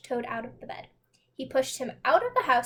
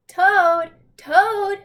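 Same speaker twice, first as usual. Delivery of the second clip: loud high calls of Toad!; urgent shouting at the door; 7 semitones higher, 11 dB louder than usual. A narrator's reading. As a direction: shout the name across to the house. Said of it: "shouted Frog".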